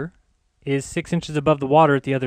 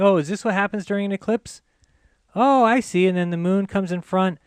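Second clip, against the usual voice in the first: mock naive; 4 semitones higher than usual. Real, not acted. Sarcastically mocking eclipse animation.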